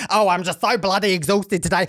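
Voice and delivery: lightly mocking stagey British accent; obnoxiously British. Mocking scripted British characters, exaggerated British accent. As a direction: put on a TV-Brit accent. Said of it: "making them say bloody".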